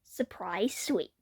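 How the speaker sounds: soft slow whisper; whispered title. A narrator's reading. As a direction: breathe the title out slowly.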